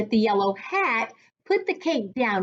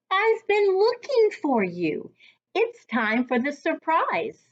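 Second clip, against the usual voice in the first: friendly man's voice; 5 semitones higher than usual. Acted. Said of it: "said the man with the yellow hat".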